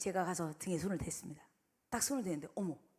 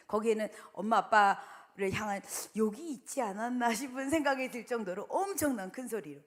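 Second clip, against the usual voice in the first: ordinary talk, nothing marked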